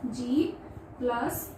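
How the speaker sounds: Plus त said very slowly, then जित; slow sounding out. Shown as a demonstration. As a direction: drag out the letters to build जित. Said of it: "जित में भी कम आवाज आ रही है". (धीरे-धीरे अक्षर जोड़कर)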